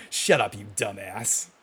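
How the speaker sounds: a gruff sitcom dad grumble; Red Foreman. Retold or imitated. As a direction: snap like a grumpy TV father. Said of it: "He's like Red Foreman right there".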